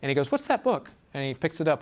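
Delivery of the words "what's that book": mocking. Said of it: "is mocking her".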